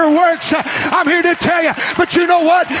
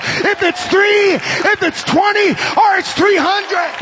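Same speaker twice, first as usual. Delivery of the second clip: preach; 3 semitones higher than usual. Real, not acted. Preacher urging churches to train their young people, shouted preaching. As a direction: preach it hard, urging them on.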